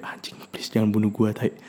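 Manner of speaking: inner panic. Retold or imitated. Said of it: "dalam hati gue udah kayak".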